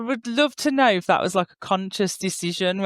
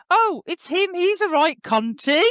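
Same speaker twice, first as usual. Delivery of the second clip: mock pointing out; 7 semitones higher than usual. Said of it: "points at Simon and goes".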